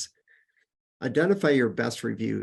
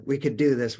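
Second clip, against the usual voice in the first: eager owner's boast; 3 semitones higher than usual. Retold or imitated. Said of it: "we're drivers and we wanna".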